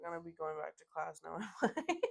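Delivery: amused, giggling out the punchline; laughing. Real, not acted. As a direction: read the joke out and crack up at the end. Laughing while reading a witty comment.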